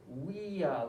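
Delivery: "Via" said with a W sound, like "wee-ah". Shown as a demonstration. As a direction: say "Via" as "wia", starting with a W. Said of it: "like a W".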